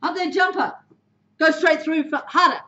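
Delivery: firm on-field instructions; coaching calls. Shown as a demonstration. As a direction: call it to your player. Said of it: "Tell someone exactly what you need to do".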